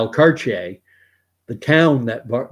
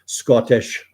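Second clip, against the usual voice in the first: the word in a put-on Scottish accent; a brief taste of Scottish accent; 4 dB louder than usual. Shown as a demonstration. Listing accents he can do, in Scottish accent. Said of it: "I can do Scottish".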